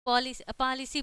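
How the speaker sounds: "पॉलिसी" repeated as PAA-li-see; pronunciation of पॉलिसी. Shown as a demonstration. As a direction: demonstrate "पॉलिसी" with an open first vowel. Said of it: "यहाँ पे क्या पढ़ रहे हैं".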